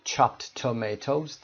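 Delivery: chopped tomatoes slow, one t only; chopped tomatoes with a single t; dropped d sound. Shown as a demonstration. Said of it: "دیگه صدای دی رو نمیشنویم".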